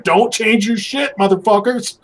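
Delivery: high, drawn-out mock rant; hammed-up high-pitched outburst; mock yelling. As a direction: pretend to yell straight into the camera. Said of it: "yelling straight into the camera".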